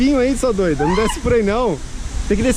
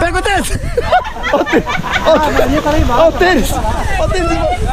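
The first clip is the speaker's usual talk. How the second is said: loud urgent calling out; shouting; 4 dB louder, faster than usual. Real, not acted. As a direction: yell across the sand for the shoe. Shouting after a lost sneaker.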